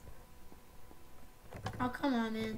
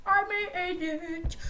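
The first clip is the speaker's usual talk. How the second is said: triumphant cheer; 4 semitones higher, 3 dB louder, much slower than usual. Real, not acted. Succeeds finally.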